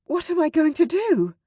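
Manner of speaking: put-on high, desperate young woman; panicked. Sarah after being caught, panicked. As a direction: plead it in panic.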